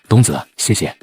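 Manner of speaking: a touch of a nasal, moved voice; choked-up nasal thanks. Acted. Friend thanking his generous partner, slightly choked up. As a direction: say thanks with a slightly stuffy nose. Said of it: "王鹏飞的鼻音瞬间消失了".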